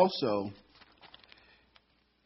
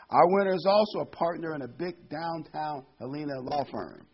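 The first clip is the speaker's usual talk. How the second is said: raised, louder banquet announcer voice; master of ceremonies; 5 semitones higher, 5 dB louder than usual. Acted. MC to banquet of lawyers, announcing. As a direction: announce the winner to the room, pitched up.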